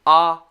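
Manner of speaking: "Ah" wide open, loud; short O sound. Shown as a demonstration. Teacher showing short O, loud open "Ah". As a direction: open up on "Ah" as for a huge bite. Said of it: "open our mouth like this".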